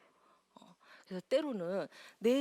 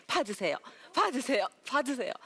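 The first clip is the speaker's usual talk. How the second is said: calling out to audience; 2 semitones higher, 6 dB louder than usual. Shown as a demonstration. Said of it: "제 마음을 던져드릴게".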